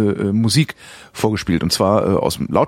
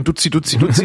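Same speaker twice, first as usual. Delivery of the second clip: mock baby talk; 5 semitones higher than usual. Shown as a demonstration. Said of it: "nicht, sondern eher".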